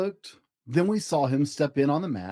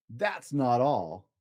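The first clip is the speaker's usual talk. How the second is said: drawn-out, lower tease; slow teasing; 4 semitones lower, much slower than usual. Acted. Cat teasing the children, slow and drawn out. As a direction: stretch it out for suspense.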